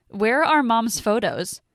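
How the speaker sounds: barely holding her anger in; rising anger. Acted. Daughter confronting stepmother over mom's photos, angry. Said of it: "I feel the anger start to rise".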